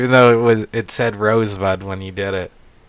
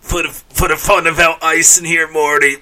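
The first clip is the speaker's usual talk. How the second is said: Rick impression; 5 semitones higher than usual. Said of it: "Now you're turning into Pickle Rick".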